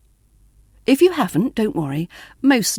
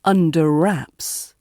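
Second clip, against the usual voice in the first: Under wraps said slowly, UNDER stressed, wraps lighter; slower than usual. Shown as a demonstration. Teacher models the phrase, Under stressed and wraps lighter. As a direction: punch Under, ease off on wraps. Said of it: "under is stressed here".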